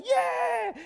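very high, loud cheering yell. Retold or imitated. Whole youth van cheering at the lookalike, loud high yell. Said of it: "We're all, like, yelling".

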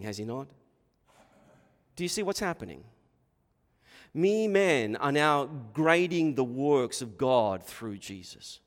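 ordinary delivery

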